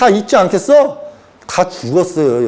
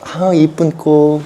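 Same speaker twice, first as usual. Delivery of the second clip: put-on doting old man; 4 semitones lower, much slower than usual. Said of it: "집에서 지금 이러고 있어".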